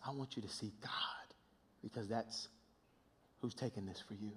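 whisper. Acted. Intimate whispered plea to congregation.

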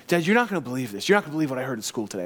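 rushed, mildly imitated excited kid; fired-up son. Son home from school telling dad, fired up and rushing. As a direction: race through it like a kid with news. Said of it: "He was so fired up".

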